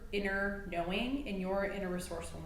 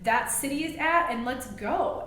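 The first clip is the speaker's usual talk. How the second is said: loud, high, pumped-up call to a crowd; brash road-trip hype; hyped announcement; 5 semitones higher, 5 dB louder than usual. Retold or imitated. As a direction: shout it like you just rolled into town. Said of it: "be like".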